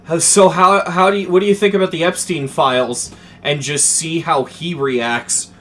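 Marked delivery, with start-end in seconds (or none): 0.1-3.1 imagined gotcha question. Retold or imitated. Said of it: "I just wanna ask this guy".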